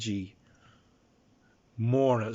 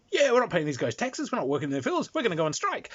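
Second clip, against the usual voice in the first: roused peasants; 6 semitones higher, faster than usual. Acted. GM voicing rebellious peasants.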